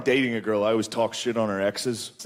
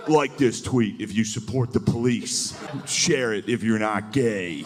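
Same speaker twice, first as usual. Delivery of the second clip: low, slow gruff read; mock redneck tweet; 4 semitones lower, slower than usual. Hometown guy's tweet read out, low and slow. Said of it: "someone from back home that's just like".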